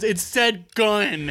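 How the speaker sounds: high, very drawn-out retelling; mock freak-out. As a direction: stretch it out as a hammed-up ghost hunter. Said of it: "he's, like, freaking out".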